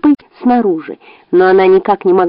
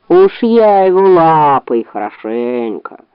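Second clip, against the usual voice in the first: gruff bear; 4 semitones lower, slower than usual. Acted. Bear threatens intruder.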